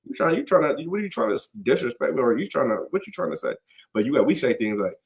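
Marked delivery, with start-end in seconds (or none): 0.0-3.5 imitating an offended brother, pitched high; mock triggered outburst. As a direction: act out feeling disrespected, half-heated. Retelling being triggered by insult.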